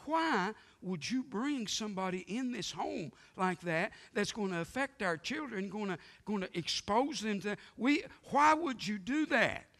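a mock outraged mother; upset wife. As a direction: protest as the alarmed wife. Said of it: "She said".

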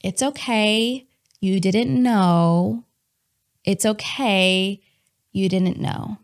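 slow, drawn-out reassurance; gently reassuring. Retold or imitated. Holy Spirit answering an ashamed believer, gently reassuring. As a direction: soothe slowly, leaving space between phrases. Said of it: "hearing the Holy Spirit say".

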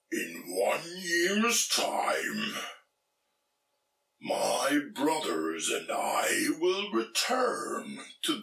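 slow, lightly voiced sea troll; a slow looming troll bargain. Sea troll speaks in story.

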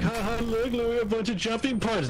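high, teasing imitation of a laugh; mocking laugh. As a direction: mimic someone laughing at you. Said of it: "He's, like, laughing at me".

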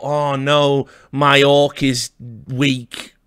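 slow, whiny mock dismay at a weak orc; mock gamer lament. Mocking a gamer who moans about his weak orc, slow and whiny. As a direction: draw it out like a sulky player. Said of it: "we've all said that".

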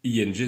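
"ing" ending on a nasal ng, no hard g; silent G. Shown as a demonstration. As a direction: let "ing" close without releasing the g. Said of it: "on ne prononce pas le G".

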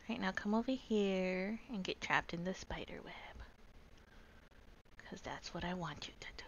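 whispered villain scheming. Pretend. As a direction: hush it out like a plotting villain.

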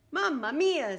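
loud high cry of dismay; dismayed exclamation. Acted. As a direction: blurt out in panic. Anthony realizes he forgot.

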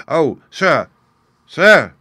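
high, loud desperate pleading; anguished cry. A narrator's reading. Husband begging the surgeon for his wife: anguished cry. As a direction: cry out to stop the surgeon delaying. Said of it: "he cried".

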